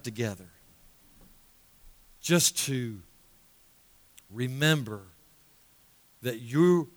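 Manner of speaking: unhurried prayer with long pauses; closing prayer. Real, not acted. Preacher praying to the Father for the congregation, measured prayer. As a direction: pray earnestly, phrase by phrase.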